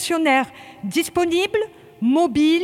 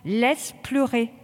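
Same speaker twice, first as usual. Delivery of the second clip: soothing; 4 semitones lower, slower than usual. Real, not acted. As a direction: let it go, gently reassuring. Instructor calms a choking recruit.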